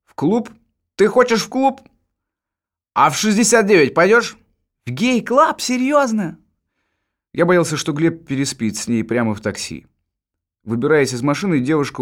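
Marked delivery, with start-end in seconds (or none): 0.0-6.4 put-on high, surprised girl's voice. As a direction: ask it in high disbelief. Girls' surprised questions.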